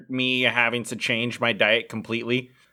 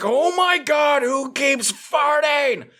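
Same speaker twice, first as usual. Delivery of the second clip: mock outraged shout; 12 semitones higher, slower than usual. Trainer calling out the gym about the farting, hammed-up high yell. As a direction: belt it out like an appalled trainer.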